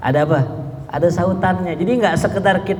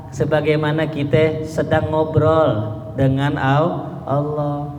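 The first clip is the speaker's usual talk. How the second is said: slow and calm. Shown as a demonstration.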